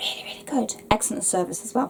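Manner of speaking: very quiet, barely voiced whispered aside. Recommending a bookshop to viewers: whispering.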